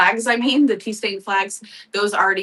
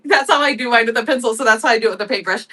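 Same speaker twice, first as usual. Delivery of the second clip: laughing while talking; 3 semitones higher, 4 dB louder, faster than usual. Real, not acted. Laughing while explaining her star.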